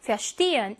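"verstehen" stressed on "steh"; light "ver", strong second syllable in "verstehen"; stress after prefix. Shown as a demonstration. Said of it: "비분리전철 다음에 강세가 와요".

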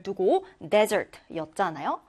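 desert slowly, first syllable stressed; drawn-out desert with the weight on DE. Shown as a demonstration. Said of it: "첫 음절에 강세를". (desert를 아주 천천히, 첫 음절에 강세)

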